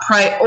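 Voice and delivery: "Prior" with a long-held OR; sounding out. Shown as a demonstration. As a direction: draw out the end of "Prior". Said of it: "the sounds of these words".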